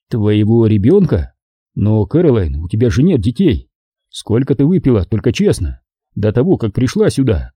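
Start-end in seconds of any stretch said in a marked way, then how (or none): none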